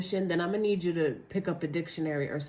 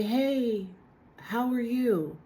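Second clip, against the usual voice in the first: casual greeting; 5 semitones higher, much slower than usual. Retold or imitated. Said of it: "When people say".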